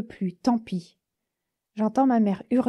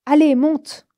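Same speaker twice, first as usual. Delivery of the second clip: loud, higher call to get in; loud urging; 5 semitones higher, 9 dB louder, slower than usual. Acted. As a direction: bark it out, pushing her to climb in. Driver urges girl into van. (le chauffeur qui crie fort à la fille de monter)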